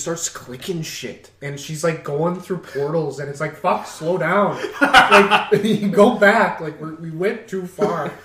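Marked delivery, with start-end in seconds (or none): 3.6-8.1 laughing exasperation. Retold or imitated. Quoting own frustration at manager.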